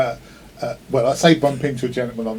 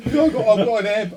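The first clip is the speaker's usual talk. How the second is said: words squeezed out higher while still laughing; laughing through words; 9 semitones higher, 5 dB louder than usual. Real, not acted. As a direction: talk through the giggles. Still laughing mid-story.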